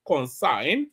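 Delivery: concern said as Consign, rhyming with sign; mispronunciation imitated. Commentator imitating protester's pronunciation of concern. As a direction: imitate the accent saying Consign. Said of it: "if he pronounces concern".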